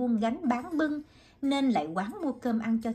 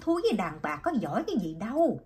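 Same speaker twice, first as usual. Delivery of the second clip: hot-headed challenge; faster than usual. Acted. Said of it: "nóng lòng nên bước lại xô hai Cao".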